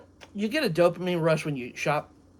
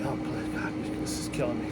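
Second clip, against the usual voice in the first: pained plea; 4 semitones lower, 6 dB quieter, faster than usual. Retold or imitated. Retelling his misery after vomiting.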